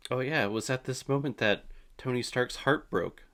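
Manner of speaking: ordinary talk, nothing marked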